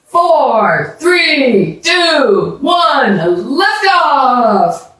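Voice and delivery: high, eager launch countdown; building countdown to liftoff; excited countdown. A narrator's reading. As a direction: count down like it's a real launch.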